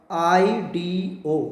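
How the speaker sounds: आईडीओ drawn out slowly, ending in o; ending pronounced. Shown as a demonstration. Teacher showing students the ide-to-ido ending. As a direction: say आईडीओ slowly, land on the final o. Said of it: "तो क्या pronounce होगा?".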